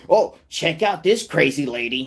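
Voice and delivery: mock reaction host shown to a child; mock reactor. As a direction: present the clip like a host. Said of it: "A child needs to be told".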